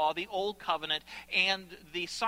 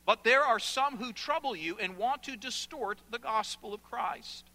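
measured phrases with weighty pauses, building in force; impassioned scripture reading; 2 semitones higher than usual. Acted. Preacher reading Paul's letter to congregation, solemn and impassioned. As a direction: read Paul's astonished rebuke aloud.

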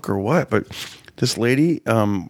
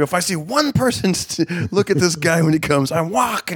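mock stern threat; 6 semitones higher than usual. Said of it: "And then I go".

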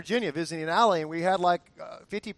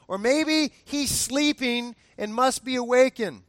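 mocking trash talk; 4 semitones higher than usual. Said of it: "Elijah starts trash talking".

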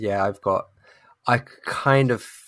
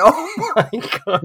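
very high, drawn-out despairing cry through laughter; laughing, wail it in comic despair; louder, slow, high-pitched exasperated outburst; mock exasperation; 6 dB louder, slower than usual. Retold exasperation at spoilers.

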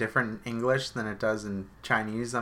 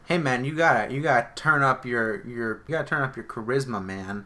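pep-talking colleague; 2 semitones higher, 4 dB louder than usual. Retold or imitated. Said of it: "they're all like".

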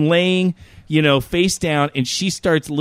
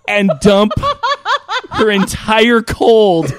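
laughing; 3 semitones higher, 5 dB louder, slower than usual. Real, not acted. Disgusted climax of story.

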